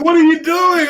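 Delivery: high-pitched mock outrage; retold indignation. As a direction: imitate an appalled friend's challenge. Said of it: "because he got mad at me".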